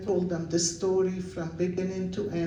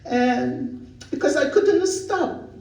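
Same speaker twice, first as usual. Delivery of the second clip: laughing; 7 semitones higher, 3 dB louder, slower than usual. Real, not acted. Laughing while recalling crying.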